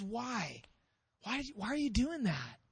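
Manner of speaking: soft, pained questioning; understated acted heartbreak; broken-hearted. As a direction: ask why as a let-down mentor. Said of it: "the broken-hearted voice of the prophet".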